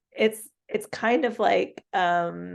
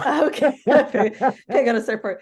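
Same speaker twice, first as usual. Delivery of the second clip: laughing loudly through the words, higher; real amused laughter, louder and higher; 4 semitones higher, 6 dB louder, slower than usual. Real, not acted. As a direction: crack up while agreeing. Amused by co-host's guess.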